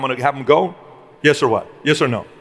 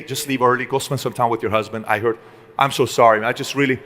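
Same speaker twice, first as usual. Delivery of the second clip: lowered, gentle sorry; 4 semitones lower than usual. Retold or imitated. Employee apologizing to grieving colleague.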